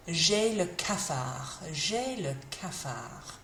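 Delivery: a touch of fed-up gloom, slow; mildly gloomy. Shown as a demonstration. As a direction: sound a little down. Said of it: "if you're feeling fed up".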